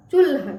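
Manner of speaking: put-on teacher modelling चूल्हा clearly for children; clear model word. Shown as a demonstration. Model reading. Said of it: "तो उसको क्या पढ़ेंगे".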